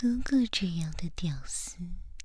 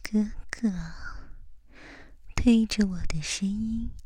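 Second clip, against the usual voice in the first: right in your ear. Acted. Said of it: "贴着你的耳朵说话吧". (贴耳低语)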